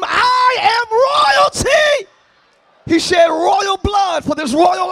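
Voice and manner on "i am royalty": shouted declaration, slow and loud; scream it. Pretend. Preacher shouting to the crowd, I am royalty. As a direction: cry it out slowly and loud. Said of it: "somebody scream".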